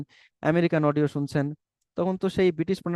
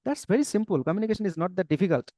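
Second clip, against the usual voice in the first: slow and simple; 3 semitones higher, much slower than usual. Real, not acted. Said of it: "slow reassuring English summary".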